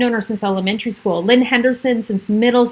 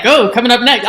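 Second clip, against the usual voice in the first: lightly imitated radio announcer; a hint of countdown host, a bit raised; Casey Kasem; 4 dB louder than usual. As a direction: tease the next song like a radio host. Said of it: "and in his voice, you know, like".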